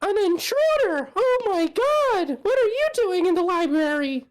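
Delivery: high startled shriek; alarmed. Acted. Startled librarian discovering intruder.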